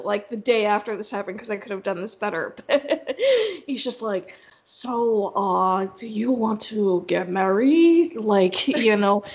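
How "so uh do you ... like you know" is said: put-on slow, hesitant stab at a French accent; bad French accent. Retelling his marriage question for the co-host, slow mock French accent. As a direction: imitate the suitor with a loosely faked French accent. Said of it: "do it in your French accent".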